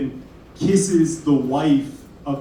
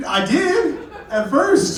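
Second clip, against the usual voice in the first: laughing deadpan answer; 11 semitones higher, much slower than usual. Retold or imitated. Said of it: "I'll be like".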